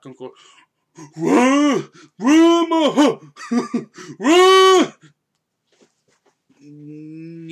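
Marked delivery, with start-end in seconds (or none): 1.2-4.9 high, loud hammed-up holler; Eddie of Barbershop. Podcaster doing an Eddie impression, frantic yelling. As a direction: yell the warning, cracking up midway. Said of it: "doing my Eddie impression".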